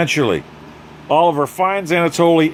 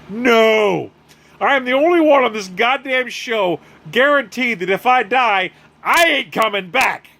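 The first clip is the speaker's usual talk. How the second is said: mock-furious tirade, rising high on the peak; acted chewing out of a partner; Fei Fei chewing out; 4 semitones higher than usual. Fei Fei scolds Spartan for not having her back, mock angry.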